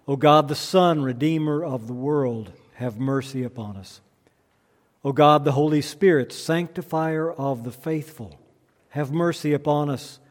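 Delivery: measured, reverent litany with falling line ends; solemn prayer. Acted. Litany prayer before the sermon.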